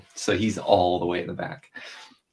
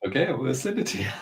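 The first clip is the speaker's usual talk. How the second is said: fast; 6 semitones higher, much faster than usual. Retold or imitated. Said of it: "I was like".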